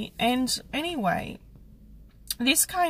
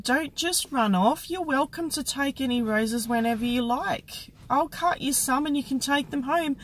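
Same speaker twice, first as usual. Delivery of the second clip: kind invitation; 5 semitones higher than usual. Retold or imitated. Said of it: "she said".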